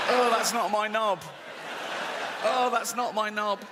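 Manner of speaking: shocked shout. Retold or imitated. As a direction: yell it in comic horror at your own body. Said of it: "I go".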